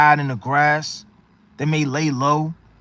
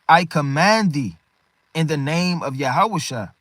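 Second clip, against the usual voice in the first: slow, measured scriptural command; solemn command. Acted. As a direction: read it out as a weighty order. Reads Paul's command from scripture.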